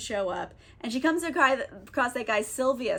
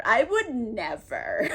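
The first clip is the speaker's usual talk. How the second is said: laughing mock refusal; slower than usual. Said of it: "She's like".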